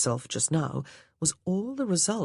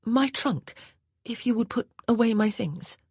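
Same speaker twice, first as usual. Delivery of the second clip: higher, brighter genteel voice; a young lady at a loss; Grace, the new lady of the house; 7 semitones higher than usual. A narrator's reading. Grace to the maid, higher and lighter.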